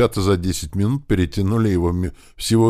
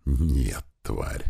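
much softer, lower hissed threat; a captor hissing at his prisoner; menacing hiss; 4 semitones lower, 6 dB quieter than usual. Acted. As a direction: hiss it low with contempt. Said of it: "зашипел я на него".

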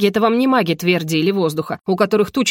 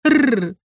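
mock angry growl; 4 semitones higher than usual. Furious heroine growls.

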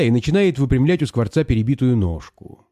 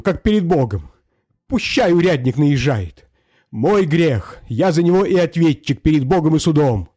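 raised pleading peasant voice; 3 semitones higher than usual. Acted. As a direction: beg to tell the truth. Hromoy pleads with the master. (мужик просит барина, чуть выше)

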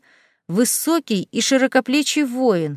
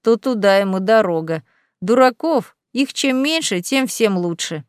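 rumbling demon. Acted. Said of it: "пророкотал он".

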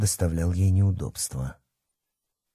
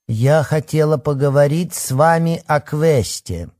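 lifeless voice; 7 semitones higher, 5 dB louder than usual. Acted. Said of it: "безжизненным голосом проговорила".

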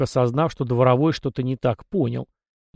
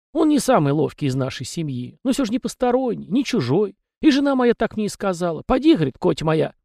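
high, folksy little peasant voice; chatty house spirit; 7 semitones higher than usual. A narrator's reading. House spirit Tikhon rambling to the young master, high and folksy. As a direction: prattle on as a talkative domovoi. Tikhon talks about family.

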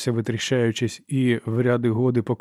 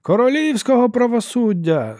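high, slow, loud shouts; shouting; 11 semitones higher, 5 dB louder than usual. A narrator's reading. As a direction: cry out from the back. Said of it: "закричали з глибини залу".

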